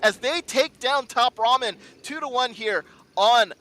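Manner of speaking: slow, drawn-out win call; announcer voice. Real, not acted.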